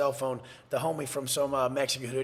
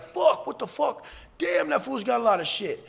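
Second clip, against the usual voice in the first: imitating amazed onlookers; 9 semitones higher than usual. Inmates at their windows seeing his haul, imitated amazement.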